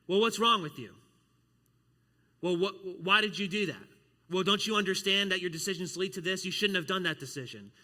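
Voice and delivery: loud, accusing scold; scolding judgment. Retold or imitated. Worldly judgment loudly scolding someone for poor decisions. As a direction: berate someone for a bad choice.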